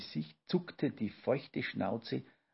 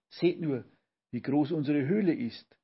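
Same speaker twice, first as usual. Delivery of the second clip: higher, louder cry of wonder; astonished call; 4 semitones higher, 5 dB louder than usual. Acted. Papa marvels at the giant cave, calling out astonished. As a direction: exclaim it in disbelief. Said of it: "rief Olchi Papa erstaunt".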